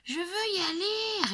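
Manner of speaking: very high, loud repeated demand; insistent child yell. A narrator's reading. Girl repeating her demand to dad, loud and high. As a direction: yell it again, stubborn little girl. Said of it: "répète Lulu Grenadine".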